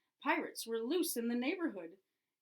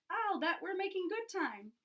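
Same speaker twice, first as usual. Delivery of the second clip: excited shout; 9 semitones higher than usual. Acted. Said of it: "shouted Floyd".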